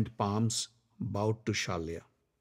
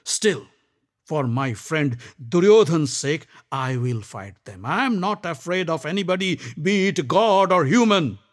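louder, defiant vow; defiant Karna; 3 semitones higher, 4 dB louder than usual. Acted. Karna vowing to fight for his friend, defiant. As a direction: stand firm.

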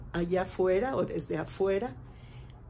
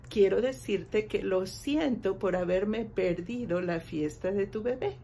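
apology dialogue. Shown as a demonstration. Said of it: "podemos utilizar estas frases".

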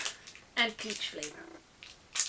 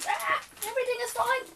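mock panic; 12 semitones higher, faster than usual. Candy spills everywhere.

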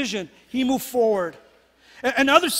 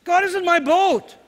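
high, ringing declaration; proclaiming to the congregation; proclaimed; 6 semitones higher than usual. Shown as a demonstration. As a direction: call it out for the neighbor to hear. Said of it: "Can you tell your neighbor".

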